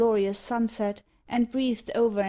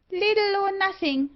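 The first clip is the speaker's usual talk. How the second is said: much higher piercing bird squawk; screeching parrot; 12 semitones higher, 4 dB louder than usual. Acted. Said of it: "screamed Meg".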